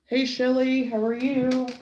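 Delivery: sing-song pet voice; high dog-talk greeting. Real, not acted. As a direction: coo at the dog.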